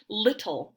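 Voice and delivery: "Little" with a soft tapped D for the double T. Shown as a demonstration. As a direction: say "Little" with a light flapped middle T. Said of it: "Just listen to the way those words sound".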